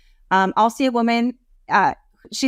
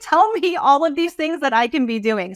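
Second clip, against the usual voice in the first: touched client's relief; 3 semitones higher than usual. Retold or imitated. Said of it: "They're like".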